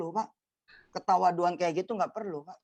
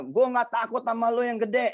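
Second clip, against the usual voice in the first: mock boast; 6 semitones higher than usual. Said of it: "Pakai ngomong-ngomong segala".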